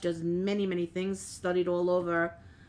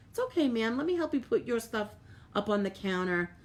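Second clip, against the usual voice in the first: higher-pitched, sweet retold offer; kindly helpful; 5 semitones higher than usual. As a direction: imitate yourself kindly helping an old lady, voice raised in pitch. Retold kindness to old lady.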